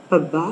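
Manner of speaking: पब्बा with a p first, then a held double b; पब्बा, p onset and a lengthened bb; Punjabi pronunciation. Shown as a demonstration. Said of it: "पहले प की sound आएगी, फिर ब की".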